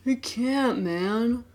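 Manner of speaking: slowly collapsing. Acted. Exhausted student refuses to get up.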